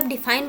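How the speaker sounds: second डिफाइन parted briefly as "dee, fine"; split into syllables. Shown as a demonstration. Teacher explaining how we break words, डिफाइन said as dee, fine. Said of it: "बोलने के लिए तोड़ते हैं".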